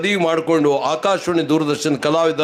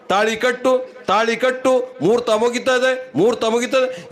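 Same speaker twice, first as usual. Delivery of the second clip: hurrying priest; 6 semitones higher than usual. Retold or imitated. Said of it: "ಸ್ವಾಮಿ ಅವಸರ ಮಾಡ್ತದ".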